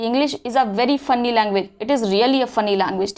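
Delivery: drawn-out filmy delivery of an actor's line; धीमा, फिल्मी अंदाज़; Amitabh Bachchan impression. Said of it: "वो dialogue नहीं है अमिताभ बच्चन जी का".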